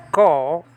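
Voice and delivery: Ko said short, a hard K then O; Hebrew Ko. Shown as a demonstration. Teacher sounding out a Hebrew word. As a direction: model the word Ko cleanly. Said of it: "It says".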